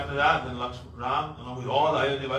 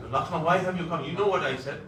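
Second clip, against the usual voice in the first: upset; 5 semitones higher, 4 dB louder than usual. Acted. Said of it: "Ram was disturbed".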